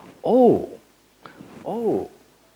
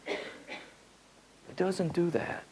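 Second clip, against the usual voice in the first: much softer, very slow; soft slow repeat; 5 semitones higher, 11 dB quieter, much slower than usual. Shown as a demonstration. Repeating to the listeners, soft and very slow. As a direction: let it sink in, quietly and slowly.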